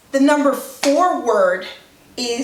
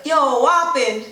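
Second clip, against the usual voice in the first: lightly concerned patois check-in; 2 semitones higher than usual. Acted. Checking on a sad friend down the road, mild concern. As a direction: ask after a sad friend, mildly concerned. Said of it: "he look kinda sad".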